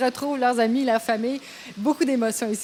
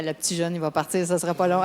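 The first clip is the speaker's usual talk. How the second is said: imitating doubters; 8 semitones lower, 4 dB quieter than usual. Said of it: "les gens, de, au début, disaient".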